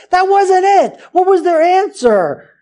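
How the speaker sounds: high, slow and forceful; preacher rising to a fervent peak, high and strong; emphatic preaching. Real, not acted. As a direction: drive the point home. Preacher building to climax.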